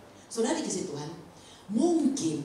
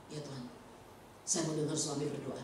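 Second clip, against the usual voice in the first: hushed prayer; 5 semitones lower, 11 dB quieter than usual. Retold or imitated. Quoted quiet prayer at table.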